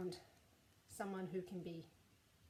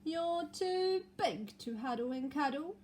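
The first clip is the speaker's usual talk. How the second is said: Eddie's voice; 6 semitones higher, 4 dB louder than usual. Acted. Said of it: "he said".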